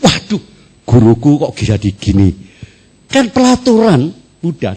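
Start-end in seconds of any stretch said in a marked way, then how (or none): 0.0-2.3 sudden dismay, then the question; shocked disciple. Retold or imitated. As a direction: gasp at what the master is doing. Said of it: "murid ini kaget".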